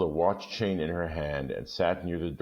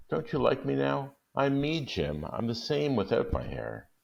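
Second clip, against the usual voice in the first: put-on much higher, eager young wife voice; higher-pitched wife pleading with her husband; Della insisting; 9 semitones higher than usual. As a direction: say it fast to get it over with. Della begs Jim.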